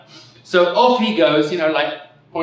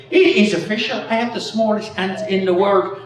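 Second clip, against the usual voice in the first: put-on higher-pitched excited Irish accent; put-on Irish accent, raised pitch; 6 semitones higher than usual. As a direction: announce it proudly as a joke Irishman. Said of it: "Sorry, Irish accent".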